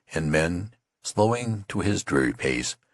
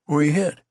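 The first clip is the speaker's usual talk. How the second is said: higher and pressing on hit; insistent repeat; 11 semitones higher, 5 dB louder than usual. A narrator's reading. Tattered man repeats his question, pressing. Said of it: "repeated the tattered man".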